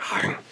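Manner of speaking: short mock snarl of a bite; playful "argh" bite noise; imitated bite growl. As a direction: imitate a snap of the jaws with a small growl. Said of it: "where he does that bite thing?".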